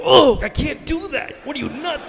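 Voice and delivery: hammed-up plane voice. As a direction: give the plane a panicked voice. Voicing the plane.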